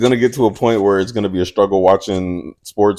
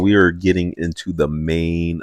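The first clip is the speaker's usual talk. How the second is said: louder, emphatic host voice, slowing at the end; show host announcement; 7 dB louder than usual. Acted. Host thanking listeners before the main event, announcer style. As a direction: announce it to the audience, drawing out the finish.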